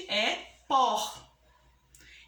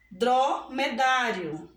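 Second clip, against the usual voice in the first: "Dromedário" slowly, weight on dá; teacher sounding out "Dromedário" with a strong dá; stressed penultimate syllable; slower than usual. Shown as a demonstration. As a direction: stretch "Dromedário", leaning on the dá. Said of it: "pronunciamos com mais força a penúltima".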